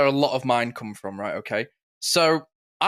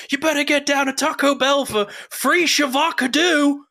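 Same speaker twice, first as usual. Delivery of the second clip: high, loud imitation of a woman misreading a sign; exaggerated high-pitched meme voice; vine lady impression; 12 semitones higher, 3 dB louder than usual. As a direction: mimic the viral lady, pitched way up. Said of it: "she pulls up and she goes".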